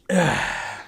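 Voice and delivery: long exhaled sigh; weary sigh. Real, not acted. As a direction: let out a tired sigh. Exasperated sigh after griping.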